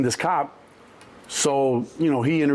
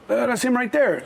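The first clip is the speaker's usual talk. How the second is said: higher, matter-of-fact nurse; nurse pointing; 9 semitones higher than usual. Retold or imitated. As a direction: point him out, pitched up. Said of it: "the nurse goes".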